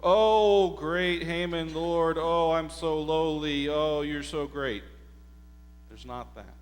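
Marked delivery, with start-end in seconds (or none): 0.0-4.8 bow and scrape in mock flattery; mock-servile gushing at the great man; mock groveling. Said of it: "There's no getting up and going".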